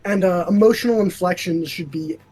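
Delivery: flat monotone with minimal inflection; Drill voice. Shown as a demonstration. Showing a friend how Drill talks, in an unfeeling monotone. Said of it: "Drill is a flat monotone".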